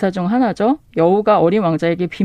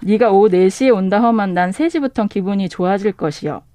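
light Jeolla dialect read. Shown as a demonstration. 전라도 사투리로 가볍게 낭독. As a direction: bookseller reads the short Jeolla line to the host, light dialect. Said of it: "그다음에 전라도 버전은".

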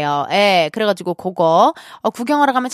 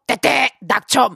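teasing announcer; slower than usual. Retold or imitated. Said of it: "제가 일부러 막 그렇게 하거든요".

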